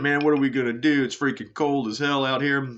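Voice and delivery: playful quote of a fed-up drinking buddy; imagined bored drinker. Pretend. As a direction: lightly voice a restless guy grumbling about the cold. Voicing bored drunk Scots by fire.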